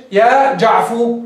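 يا جعفو drawn out and ending on و; slow clipped call. Shown as a demonstration. Teacher quizzing the class with a slow call. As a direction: stretch يا جعفو slowly. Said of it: "وجعفر يا إيش".

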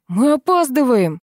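high, drawn-out nagging whine; whining. A narrator's reading. Vasya whining that they are late, whining. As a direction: moan loudly in impatience. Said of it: "заныл Вася".

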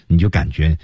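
usual speaking voice

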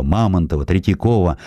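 plain reading voice

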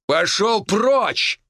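slow loud high shout. A narrator's reading. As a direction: bellow it, drawn out. Mentor yells hero away.

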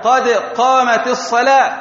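قد ends in a vowelless, echoing d before قامت; bounced dal. Shown as a demonstration. Teacher demonstrating the iqama, qalqala on the d of قد. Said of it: "الدال مسكنة فتقلقل".

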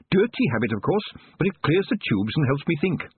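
lightly voiced old witch; a dry, knowing old woman. A narrator's reading. Missus Proust's voice.

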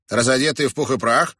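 high-pitched musing repeat; thoughtful. A narrator's reading. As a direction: repeat it as if pondering. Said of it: "повторил он задумчиво".

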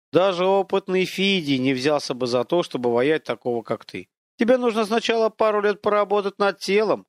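lightly voiced haughty spirit lecturing a man; mocking unseen voice. Unseen whisperer mocks Viktor.

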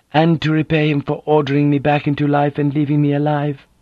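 a dignified woman, hurt and firm; proud wounded noblewoman. Acted.

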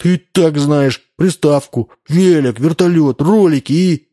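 high, loud rush of wishes; greedy child reciting wants; eager listing. A narrator's reading. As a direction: pile up the gifts gleefully. Boy lists wishes.

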